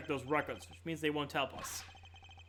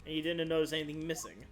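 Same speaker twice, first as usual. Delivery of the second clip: haughty lady voice. Acted. Warden character answers questions.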